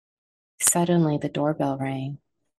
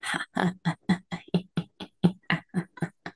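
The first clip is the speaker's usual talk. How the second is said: maniac laugh; 3 semitones higher, 7 dB quieter than usual. Acted. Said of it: "couldn't stop laughing".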